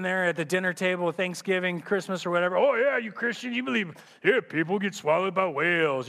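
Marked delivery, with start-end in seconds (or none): 2.6-6.1 mocking crazy uncle. Crazy Uncle Joe at the holiday dinner table, mocking Christians. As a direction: tease the believers, scoffing. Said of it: "crazy Uncle Joe always throws Jonah and the big whale in your face".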